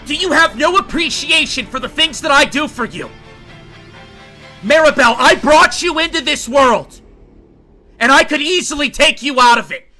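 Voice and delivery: furious high shout at his daughter; father screaming at his eleven-year-old daughter; screaming in rage. Acted. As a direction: scream it down at her, losing all control. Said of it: "he starts screaming".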